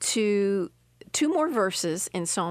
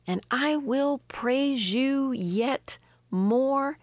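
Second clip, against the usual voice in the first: higher, very slow whisper; whispered praise; 4 semitones higher, much slower than usual. Acted. Preacher praising God in the psalm, in a high whisper.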